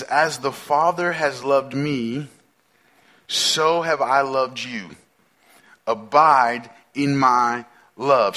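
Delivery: slow, measured verse reading; scripture reading. Real, not acted. Preacher reads Jesus's words to the congregation, slow and measured. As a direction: read each phrase out slowly and deliberately.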